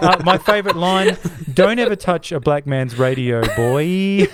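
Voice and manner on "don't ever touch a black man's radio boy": movie quote. Retold or imitated. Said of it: "I believe he says".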